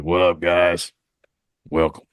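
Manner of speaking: a light Southern drawl on a friendly greeting; lightly voiced Southern dog man saying hi; mock Southern accent. Host imitating an upright canine greeting the crew, mild Southern accent. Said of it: "Yeah, Southern accent".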